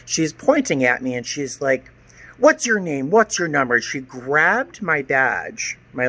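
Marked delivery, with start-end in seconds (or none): 2.4-3.8 sharp, higher mock demand; threatening tone. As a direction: bark it like a small bossy official. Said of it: "with this threatening tone".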